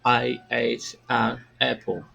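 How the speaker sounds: "I ate an apple" drawn out slowly; slow demo. Shown as a demonstration. Teacher shows "I ate an apple" very slowly to students. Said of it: "se eu fosse pronunciar".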